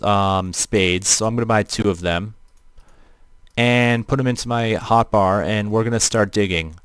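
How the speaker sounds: flat robotic voice filter. Real, not acted. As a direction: talk through a robot voice changer. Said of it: "you're questioning why my voice sounds robotic".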